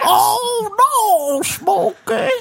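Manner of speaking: mock crying. Mock grief over nickname.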